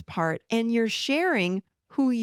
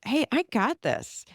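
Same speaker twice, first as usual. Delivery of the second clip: higher-pitched, assured delivery; strong, confident; 4 semitones higher than usual. Shown as a demonstration. Coach showing how to speak to parts, strongly. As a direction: say it with your power. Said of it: "Say it strongly".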